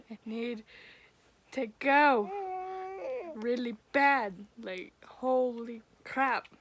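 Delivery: urgent loud plea. Retold or imitated. Retold desperate need in labor.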